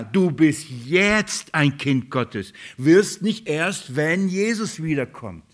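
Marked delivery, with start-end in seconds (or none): 0.0-3.9 du bist jetzt ein Kind Gottes, very slow with jetzt weighted; emphatic, deliberate preacher's stress on jetzt. Shown as a demonstration. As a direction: drive home the word jetzt, slowly. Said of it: "werd dir klar".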